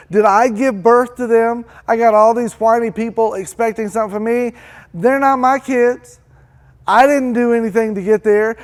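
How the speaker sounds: high, loud, frazzled complaining; stressed rant. Acted. Preacher as Moses complaining about whiny people, high and frazzled. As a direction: pour out every grievance at once.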